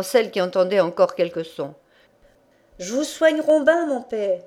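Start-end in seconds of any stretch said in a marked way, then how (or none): 2.8-4.4 raised, higher voice calling into a deaf ear; shouting in his ear. Acted. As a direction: son shouting to his half-deaf father. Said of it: "lui crier dans l'oreille".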